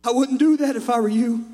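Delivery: normal talking voice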